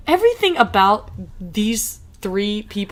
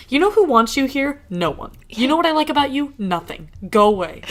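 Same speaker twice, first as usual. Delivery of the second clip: mock dismissive; 6 semitones higher than usual. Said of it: "I'm just like".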